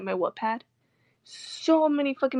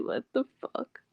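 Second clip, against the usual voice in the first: whispered disbelief; 3 semitones higher, 4 dB quieter than usual. Retold or imitated. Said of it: "I'm just like".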